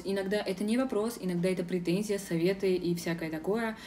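ordinary talk

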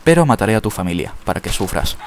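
exaggerated villain threat; mustache twirling villain. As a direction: menace it like a cartoon baddie. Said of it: "qué malvado soy". (villano de bigote retorcido)

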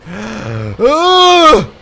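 sharp gasp into a loud high cry; gasp, then yelp loudly; real shocked gasp and yelp; startled gasp. Real, not acted. Startled during play.

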